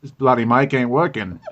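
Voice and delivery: light American try at Australian accent; playful Aussie accent, lightly done. Shown as a demonstration. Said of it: "trying to think of how I said it now on the Skype".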